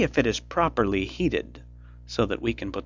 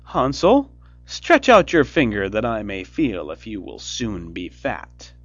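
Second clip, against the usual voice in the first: cried; 8 dB louder than usual. A narrator's reading. Witch at the stable door, loud demanding call. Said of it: "crept to the little stable and cried".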